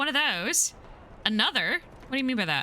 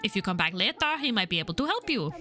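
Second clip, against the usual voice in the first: put-on French accent. Bartender explaining who works the night shift, French accent. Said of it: "Should I give him a French accent?".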